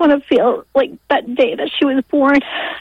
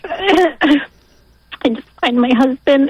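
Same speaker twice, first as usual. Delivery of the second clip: crying; much slower than usual. Real, not acted. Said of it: "so emotional".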